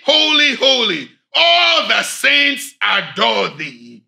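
hymn spoken not sung, swelling on each holy; recited hymn. Shown as a demonstration. Preacher closing the sermon by quoting a hymn, spoken recitation. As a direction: declaim the hymn lines with fervour. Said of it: "I'm just going to quote it".

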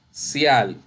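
"sial" drawn out slowly as the stressed syllable; teacher sounding out "sial". Shown as a demonstration. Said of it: "Su sílaba tónica es sial".

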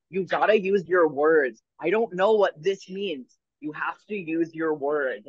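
retold talking-down of someone panicking; slow, deliberate instruction as to a child; slow, patient scolding. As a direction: spell it out slowly, word by word.

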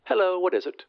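high voice down a phone line; thin high voice through a phone; telephone voice. Acted.

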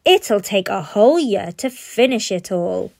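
a hint of a sneering boy; scoffing. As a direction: brush off the worry with scorn. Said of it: "scoffed Bradley".

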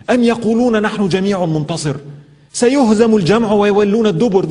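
rapid Arabic verse, rattled off fast; quick Quran recitation. Acted. Preacher quoting Surah Al-Qamar to the listeners, fast recitation.

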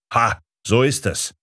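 high triumphant exclamation, pointing a finger; triumphant cry. A narrator's reading. Professor pointing at the narrator, triumphant high cry. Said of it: "rief noch einmal".

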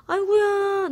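high delighted coo; cooing to plants. Real, not acted. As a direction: coo at the little plants like babies. Cooing over new offsets. (아기 달래듯 높게 감탄)

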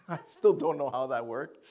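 real chuckle while talking; amused laughing. Real, not acted. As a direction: laugh into the words, slowing down. Amused by own lucky resume.

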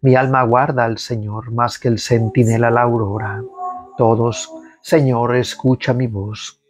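measured liturgical reading of the psalm; psalm recitation. Acted. Prayer leader leading online faithful in psalm, liturgical reading. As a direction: lead the congregation through the psalm.

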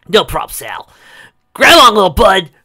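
high, loud eager shout; excited. Acted. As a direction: launch into it full of energy. Sonic excited to take off.

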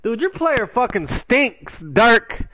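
raging gamer. Real, not acted. Raging at teammate's player.

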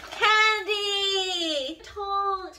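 high, loud cry of delight; excited shout. Real, not acted. Finding candy, a loud happy shout.

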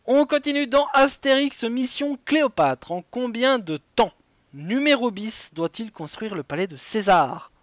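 high-pitched launch, clearly punched titles; quiz host announcing. Acted. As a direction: announce the next question like a presenter. Quiz host reads out question.

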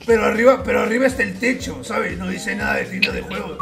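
lightly put-on grandpa voice; trolling as a frail old grandpa; very old man. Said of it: "haciendo la puta voz de viejo".

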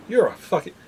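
whispering. Real, not acted. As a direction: hiss it under your breath. Muttered insult after low score.

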